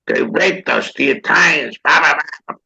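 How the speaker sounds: lightly acted tirade, trailing into blahs; imitating ranting co-star. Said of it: "he was saying".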